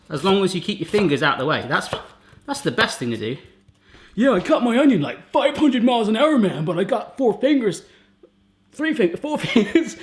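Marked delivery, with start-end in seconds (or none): 4.1-10.0 careless bloke. Pretend. Mocking a careless cook.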